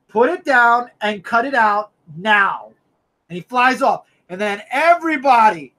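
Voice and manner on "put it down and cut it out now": slow, deliberate command; mock stern hero ordering everyone to stop; stern Superman quote. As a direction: lay down the order slowly like a scolding hero. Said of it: "He says".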